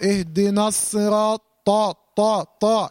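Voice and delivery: heavy, breathless ط in each طا; strong ta. Shown as a demonstration. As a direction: strike طا hard with the air held back. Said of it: "الطاء اقوى الحروف".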